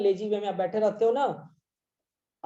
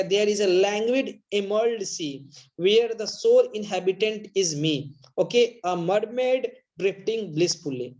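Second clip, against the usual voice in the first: slow poem reading; much slower than usual. Shown as a demonstration. Teacher reading Amanda's daydream to students, slow. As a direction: read each word slowly and clearly. Rereads the stanza.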